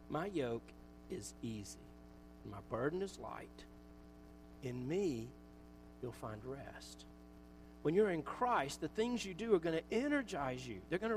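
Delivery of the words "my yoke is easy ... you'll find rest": much lower and softer, slow and tender; soft, slow promise. Acted. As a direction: lay it down gently like a comfort. Quoting Jesus, soft and slow.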